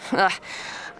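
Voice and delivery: short breathy mocking chuckle; mocking laugh. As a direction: laugh at her scornfully. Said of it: "He laughed".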